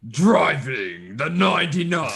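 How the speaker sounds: slow hammed-up announcer voice; Monster Jam announcer. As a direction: drag it out like an arena announcer. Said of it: "Is that a good monster voice?".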